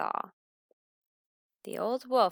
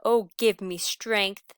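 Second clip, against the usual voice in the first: exasperated groan; 7 dB louder, slower than usual. Acted. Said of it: "groaned the old wolf".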